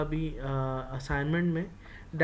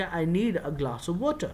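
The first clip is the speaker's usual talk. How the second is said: short form, slow; much slower than usual. Shown as a demonstration. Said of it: "اس کو short form کر کے".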